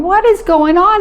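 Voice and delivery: high, bewildered cry; retold panicked disbelief; alarmed question. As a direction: ask it in rising panic. Husband won't wake, alarm.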